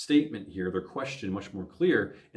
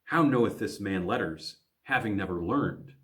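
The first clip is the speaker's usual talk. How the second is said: accusatory. Shown as a demonstration. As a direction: question put as an accusation. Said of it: "asking this question in an accusatory way".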